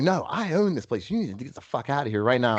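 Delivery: lightly acted insistence, pitch jumping up at first; imitated indignant owner. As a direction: act out an owner throwing someone out. Retold bar owner throwing them out.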